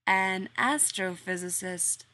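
slow echo, AN stretched in "An astrophysicist"; slow puzzled repeat. Acted. Workman repeating Rodney's job back to him, slow and puzzled. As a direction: echo it back slowly, unsure. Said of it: "Cornwallis repeated".

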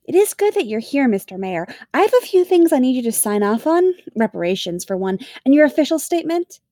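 beaming reassurance. A narrator's reading. Kelly steers the Mayor toward paperwork, brightly reassuring. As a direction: reassure through a beaming grin. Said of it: "reassures him with a beaming grin".

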